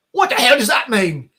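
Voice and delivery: mock-incredulous character delivery; quoted sitcom character. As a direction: play the baffled sitcom line. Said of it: "one of the guys quotes".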